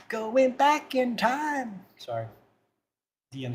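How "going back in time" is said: spooky echo voice. Pretend. Spooky time-travel voice.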